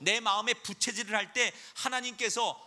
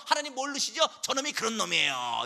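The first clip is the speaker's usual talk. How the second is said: Satan tattling. Acted. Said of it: "이러고".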